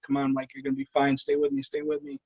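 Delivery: hushed, pleading comfort; soft reassuring. Retold or imitated. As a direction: keep him with you softly. Comforting dying partner.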